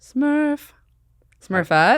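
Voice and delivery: Smurf voice. Pretend. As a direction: try out a little Smurf voice. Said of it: "You can do a Smurf".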